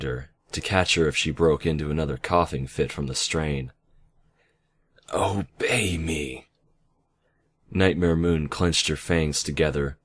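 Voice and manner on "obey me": slow, breathy whisper; hushed, drawn-out command. Acted. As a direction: whisper the order, drawing out each word. Villain commands magic under strain.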